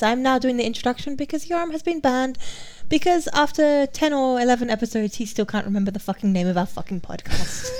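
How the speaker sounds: mock-soothing podcast introduction; smooth, measured host voice over irritation. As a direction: put on a soothing voice. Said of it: "This is my soothing voice".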